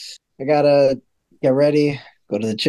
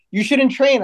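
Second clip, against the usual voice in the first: mock girlfriend; 8 semitones higher than usual. Voicing girlfriend's nagging.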